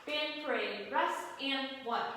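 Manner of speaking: loud barked drill command; parade commander. Shown as a demonstration. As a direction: call it like a drill sergeant. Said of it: "So again, you're here".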